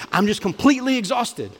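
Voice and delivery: high, drained mock complaint; mock exhausted whine. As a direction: play the worn-out hustler, lightly. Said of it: "The Huberman podcast said".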